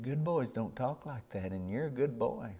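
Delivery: softly imitating a reassuring grandma; gentle correction. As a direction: correct a small child kindly and quietly.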